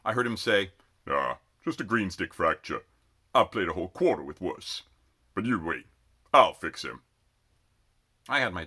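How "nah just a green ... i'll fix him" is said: Breckenridge. A narrator's reading. Injured Breckenridge brags.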